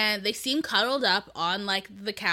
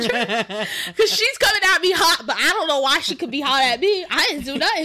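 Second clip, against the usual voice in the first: laughing through words; 5 semitones higher, 8 dB louder than usual. Real, not acted. Laughing while retelling confrontation.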